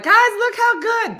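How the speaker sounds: high, loud, stretched-out boast; mock show-off yell. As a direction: call out slowly to an audience. Showing off on low tightrope.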